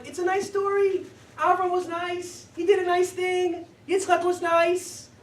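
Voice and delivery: mock a preschooler's view of the story; naive storybook tone. Rabbi mocking the childish reading, sing-song.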